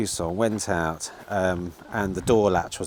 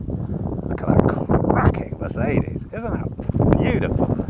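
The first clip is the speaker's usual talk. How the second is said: high, breathy gasp of admiration; breathy admiring awe; 8 dB louder, slower than usual. Real, not acted. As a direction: swoon over the Mercedes in a high whisper.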